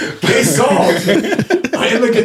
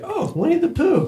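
airy high-pitched teacher, careless; mock teacher voice; 11 semitones higher, 5 dB quieter than usual. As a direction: play the clueless teacher, light and high. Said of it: "So she's like".

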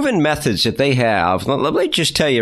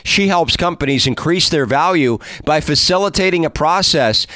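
polished host intro delivery; presenter's scripted welcome; podcast intro read; 2 semitones higher than usual. Acted. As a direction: read it as a measured show opener. Reads the scripted show introduction.

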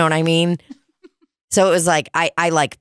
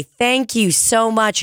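fake polite thanks; 6 semitones higher, slower than usual. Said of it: "act like I give a fuck".

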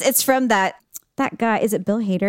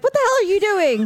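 imitating dad; 10 semitones higher than usual. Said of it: "And Dad's just like".

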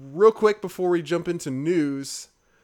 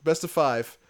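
eager challenge; 3 semitones higher, 4 dB louder than usual. Retold or imitated. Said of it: "I was like".

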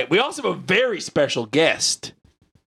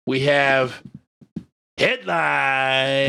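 dramatic announcer; 5 semitones lower, much slower than usual. Acted. Segment announcement.

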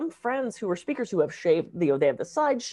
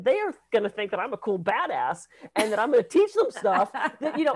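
bold, cocky comeback, a bit louder; proud badass reply; defiant retort; 4 dB louder than usual. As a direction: toss it back with swagger. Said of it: "And I said".

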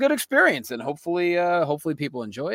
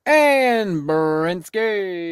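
drawn-out sign-off; 5 dB louder, much slower than usual. Acted.

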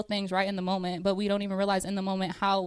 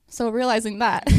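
out of breath; 3 semitones higher, 7 dB louder than usual. Real, not acted. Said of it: "sorry, I had to catch my breath".

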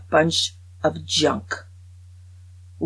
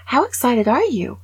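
mock excited interviewer; 7 semitones higher, 5 dB louder than usual. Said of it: "an off-camera voice says".

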